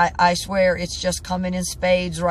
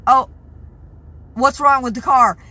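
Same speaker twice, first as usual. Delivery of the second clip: higher, louder mock innocent whine; mock clueless question; 6 semitones higher, 7 dB louder than usual. Mocking the woman who asks about the broken car, higher and louder. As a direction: play her as sweetly clueless, pitched up and loud. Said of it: "She's like".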